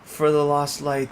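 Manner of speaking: lightly voiced old man, slow; a hint of a creaky old man. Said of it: "I keep using old man voice".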